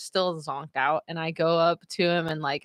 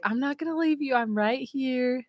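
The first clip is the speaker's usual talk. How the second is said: higher, gently soothing; tender reassurance; 5 semitones higher, 4 dB quieter than usual. Retold or imitated. Wife answers her crying husband, tender reassurance. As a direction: reassure him in a pitched-up, soothing voice.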